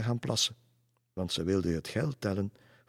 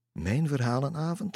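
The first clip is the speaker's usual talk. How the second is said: amused, high-pitched question; laughing question; 7 semitones higher, 3 dB louder than usual. A narrator's reading. Lisse asks Roel about her story evening, amused. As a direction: ask it with a touch of laughter, lifted high. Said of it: "lachte Lisse".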